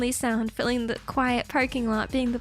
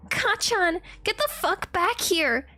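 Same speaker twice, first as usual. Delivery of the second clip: higher call after him; 7 semitones higher than usual. Acted. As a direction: call him back across the steps. Izuku calls after him.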